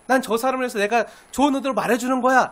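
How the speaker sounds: well-meaning self-talk. Retold or imitated. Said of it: "이렇게 생각하는 순간".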